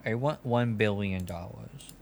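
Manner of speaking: slow, mopey put-on voice, half laughing through it; a hint of a whiny baby, dragged out slowly; sad baby-talk exec. Company exec sulking to the podcast hosts, slow and mopey. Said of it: "Mason, you should keep talking like that. That's the character".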